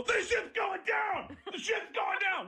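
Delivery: high-pitched panicked cries; mock panic. Passengers believing the iceberg prank, mock hysteria.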